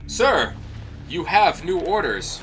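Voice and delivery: lightly voiced high guard's call; game guard. Guard bringing an officer new orders, lightly voiced, high call. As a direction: hail a superior, slightly hammed-up and high.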